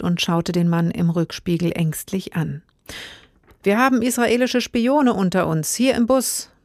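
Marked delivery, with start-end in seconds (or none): 3.6-6.5 raised, higher frantic shout; hysterical bellow. Acted. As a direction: bellow it out in a panic. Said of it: "brüllte der Hysteriker".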